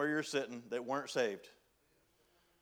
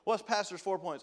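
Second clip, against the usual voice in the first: lightly acted casual question, higher pitch; pitched-up mock inquiry; curious lunch companion; 6 semitones higher than usual. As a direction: ask it like someone quizzing friends at lunch. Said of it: "if somebody said".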